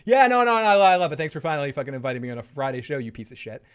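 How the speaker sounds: mock-gracious guest turning rude and rushed; Joe. Fake guest thanking the host, hammed-up backhanded gratitude. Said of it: "thank you, Joe, for coming on".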